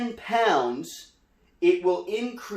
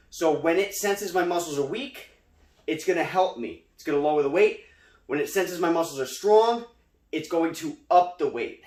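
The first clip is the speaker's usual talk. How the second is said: out of breath. Real, not acted. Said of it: "sorry, I'm out of breath".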